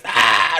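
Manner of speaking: loud kobold death cry; short, loud cry of being struck; choked cry. Acted. Game master voicing a kobold shot in the throat, loud cry. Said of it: "He goes".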